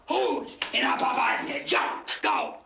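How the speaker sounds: put-on drunken shout. Old mobster ranting to the Don, shouting. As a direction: bellow it out in drunken rage.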